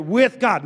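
"With" leaned on in "With God"; stress on WITH. Shown as a demonstration. Preacher breaking down the verse, stress on "With". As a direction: punch "With" to set up a contrast. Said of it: "not for God".

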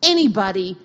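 loud, firm vow to God; loud defiant prayer; defiant declaration. Retold or imitated. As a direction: declare it like slamming a door. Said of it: "And I said".

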